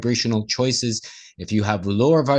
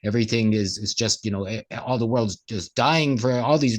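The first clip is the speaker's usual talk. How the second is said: grumbling complaint. Retold or imitated. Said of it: "if you're walking around going".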